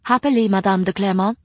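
lightly voiced courteous librarian; polite librarian voice. Rima replies.

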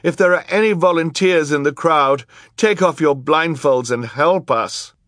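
put-on high, loud boy's plea for help; urgent appeal. A narrator's reading. Boy begging blindfolded volunteers for help, high urgent call. Klaus pleads with the crowd.

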